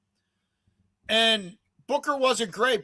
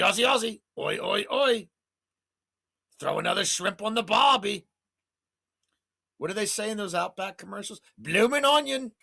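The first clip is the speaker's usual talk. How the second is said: Kylie the Mook Kangaroo. Acted. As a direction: play a cheeky cartoon kangaroo hyping the bets. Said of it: "is Kylie the Mook Kangaroo".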